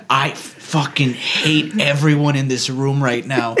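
slow, laughing mock despair; half-laugh the complaint; exasperated chuckle through the words; laughing exasperation. Exasperated quote about coworkers.

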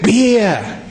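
a high exclaimed Beer; called out beer. Acted. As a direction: call out Beer as you go. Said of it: "But he said".

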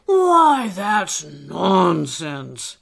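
loud, high burst, then drawn out; interrupting. Acted. Old elf cuts off Alistair's self-doubt, interrupting loudly. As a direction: cut in with a booming dismissal. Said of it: "the old elf interrupted".

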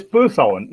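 "P" said as a short puh; schwa sound. Shown as a demonstration. Trainer corrects Indian speakers' mistake, schwa pronunciation. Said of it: "mistake in schwa sound".

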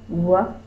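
W-I-G, each letter sounded apart; sounding out words. Shown as a demonstration. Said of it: "let's sound out the word wig".

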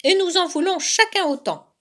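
high, loud cub demand; insistent cry. A narrator's reading. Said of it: "crièrent ensemble les deux oursons". (réclamation aiguë et insistante)

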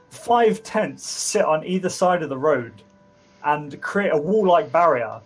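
measured, emphatic scene-setting; game master narration. Acted. Game master describes the bandit camp to players, measured narration. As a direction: set the scene with deliberate stresses.

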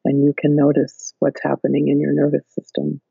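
flat monotone, no melody. Shown as a demonstration. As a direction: drain all tune from the voice. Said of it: "just speak in a monotone voice".

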